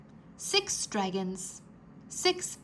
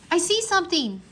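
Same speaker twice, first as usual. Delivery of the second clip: higher, louder excited discovery; excited exclaim; 8 semitones higher, 6 dB louder than usual. A narrator's reading. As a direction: blurt it out with excitement. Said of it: "Drake exclaimed".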